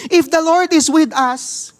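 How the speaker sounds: high, slow questioning plea; lightly voiced pleading Gideon; preacher voicing Gideon's doubt, high and slow; Gideon's complaint. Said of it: "and Gideon replied".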